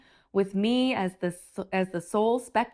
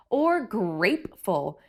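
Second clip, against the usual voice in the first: with a wink; slower than usual. Acted. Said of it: "my grandpa said with a wink".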